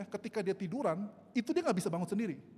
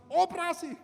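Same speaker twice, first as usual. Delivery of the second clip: high, loud burst of disbelief; incredulous shout; 10 semitones higher, 9 dB louder than usual. Retold or imitated. Retelling surgery one week after the last, incredulous shout. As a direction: shout the word back in mock alarm. Echoing shocking surgery order, outraged.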